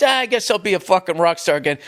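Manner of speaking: mock casual rock star, lightly voiced; nonchalant. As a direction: toss it off like it's nothing.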